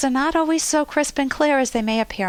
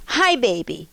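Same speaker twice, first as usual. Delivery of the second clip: hurt and angry. Retold or imitated. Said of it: "to hurt and anger".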